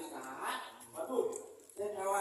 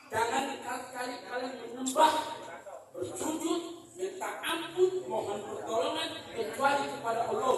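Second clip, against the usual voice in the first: emphatic preaching; 5 semitones higher, 6 dB louder than usual. Acted. Preacher forbids worshipping others.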